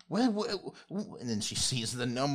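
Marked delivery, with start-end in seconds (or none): 0.1-1.2 put-on high, slow, fluttery old lady voice; an old woman flustered out of her garden; frumpy old lady. Old gnome lady startled by visitors, high and slow. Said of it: "this old sorta, like, frumpy lady".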